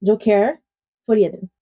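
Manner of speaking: "Joker Folie à Deux" with French vowels after a pause; French title corrected. Shown as a demonstration. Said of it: "I said it in English".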